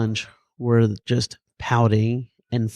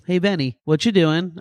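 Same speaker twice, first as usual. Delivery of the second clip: lightly voiced teenage girls; 6 semitones higher than usual. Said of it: "Girls come over the table".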